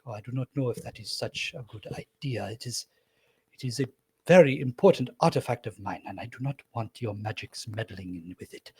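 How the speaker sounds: nervous, guarding his secret; wary gentleman. Acted. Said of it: "And he goes".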